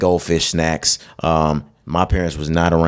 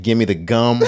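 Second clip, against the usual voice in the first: higher-pitched cartoon voice, breaking into a laugh; Family Guy Jesus; 4 semitones higher than usual. Quoting a cartoon Jesus to a co-host, light impression. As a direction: lightly imitate a cartoon holy man. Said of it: "He sound just like that".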